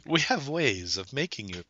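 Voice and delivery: slow, menacing spy villain line; cool foreign spy menace. Acted. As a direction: purr it like a sinister foreign agent. Jokes about forcing people to die.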